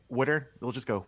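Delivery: "water" mimicked as a questioning "wooder?"; teasing "wooder". Bartenders making fun of him, mimicked Philly "wooder". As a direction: tease with water said like "WOOD-er". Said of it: "will make fun of me".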